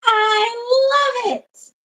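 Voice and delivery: high, drawn-out gushing; excited. Real, not acted. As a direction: swoon the words out slowly. Gushing about the engagement.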